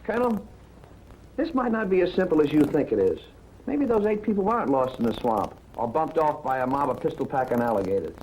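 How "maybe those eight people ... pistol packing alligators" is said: dry, understated sarcasm; sarcastic. Acted. Investigator mocking the alligator theory, sarcastic. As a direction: needle him drily, dropping low on the last word. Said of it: "I don't think your sarcasm is necessary".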